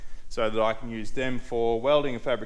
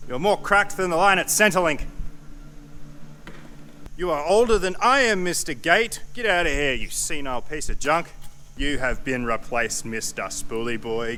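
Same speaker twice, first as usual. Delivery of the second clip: higher, louder teasing rant; mock insults; 4 semitones higher, 4 dB louder than usual. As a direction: roast the old parts. Insulting old car parts.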